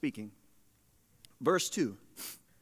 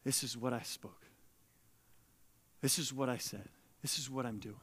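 God's voice; 8 semitones lower, 14 dB quieter than usual. Acted. God's voice, very soft.

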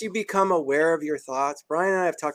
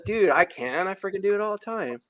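confident gut voice; 6 semitones higher than usual. Acted. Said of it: "And your gut says".

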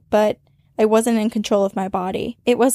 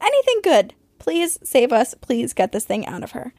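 frantic prayer; 3 semitones higher than usual. Retold or imitated. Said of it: "praying furiously".

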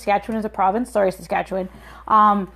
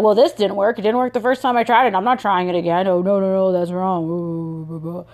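imitating negative people; 3 semitones lower than usual. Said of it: "Do you like my imitation of people who are being negative".

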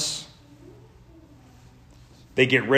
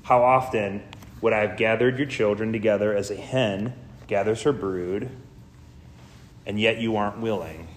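softer, grave and measured; solemn lament; 3 semitones lower, 3 dB quieter than usual. Retold or imitated. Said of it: "he says very solemnly".

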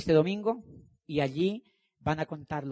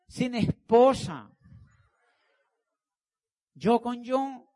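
slow, drawn out; 7 semitones higher, slower than usual. Acted. Mock envy of his freedom.

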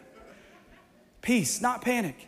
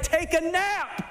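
calm God; 6 semitones higher, slower than usual. Retold or imitated. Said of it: "God's like".

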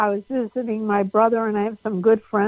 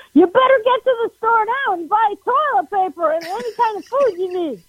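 urgent warning; 10 semitones higher, 4 dB louder than usual. Retold or imitated. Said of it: "my friend called me and goes".

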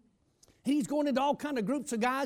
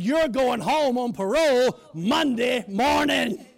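loud announcement; 6 dB louder, slower than usual. Retold or imitated. Captain announces the miracle release.

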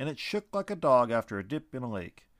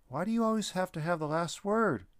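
high, calling out after him; exasperated call; 8 semitones higher than usual. Acted. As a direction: shout it into the trees. Lucas calls after the vanished being.

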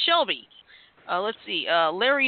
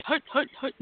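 barked football snap count; quarterback calling cadence; 5 semitones higher, 3 dB quieter than usual. Pretend. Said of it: "I'm kidding".

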